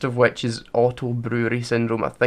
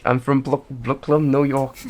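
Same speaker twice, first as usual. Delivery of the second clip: put-on New York accent; 3 dB louder than usual. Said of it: "your stupid New York accent".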